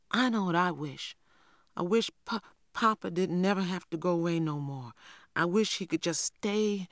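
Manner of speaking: a hint of a small boy longing for his papa; wistful little boy. Little boy Christopher John voiced.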